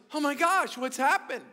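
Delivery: shocked at the changed parrot; surprised owner. Retold or imitated. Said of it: "The guy goes".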